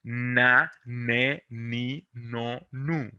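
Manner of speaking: teacher modelling na ne ni no nu; syllable drill. Shown as a demonstration. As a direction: say "na, ne, ni, no, nu" slowly and clearly, syllable by syllable. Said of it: "Este es el sonido nasal".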